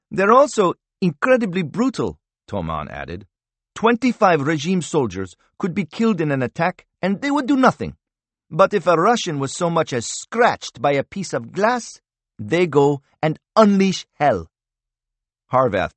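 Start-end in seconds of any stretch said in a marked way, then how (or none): 0.1-2.2 higher, intense voice for Toman; a hint of a bitter rebel fighter; Toman's voice. A narrator's reading. 3.7-14.5 higher, intense voice for Toman; a hint of a bitter rebel fighter; Toman's voice. A narrator's reading.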